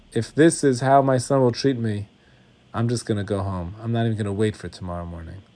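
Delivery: low, soft aside, trailing down; said to himself. Acted. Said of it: "he says to himself".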